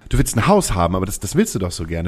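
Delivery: high, pushy inner voice; playful high-pitched nagging. Acted. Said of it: "wie so eine kleine Stimme in deinem Kopf".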